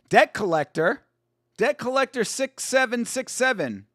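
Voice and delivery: lightly imitating a bootleg Thai dub of an American film; a half-hearted Thai-accented dub impression; mock Thai dub voice. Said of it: "sounds like this".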